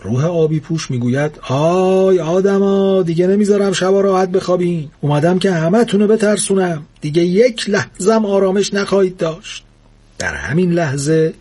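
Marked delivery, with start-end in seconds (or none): 1.5-9.6 loom over them like a ghost; spooky ghost threat. Acted. The blue ghost warns all humans in a spooky voice.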